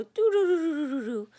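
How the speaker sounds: sinking doo doo like a phone dying; dying battery noise. Retold or imitated. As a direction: imitate a battery draining down. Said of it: "the battery on your phone go".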